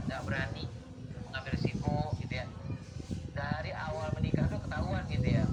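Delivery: loud, forceful preaching; scolding lazy husbands, loud and forceful; loud emphatic. Real, not acted. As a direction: press the point hard and loud. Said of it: "speaking loud in earnest".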